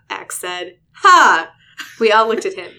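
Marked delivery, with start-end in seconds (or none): 1.0-1.5 stiff fake laugh. A narrator's reading. Alien attempting laughter.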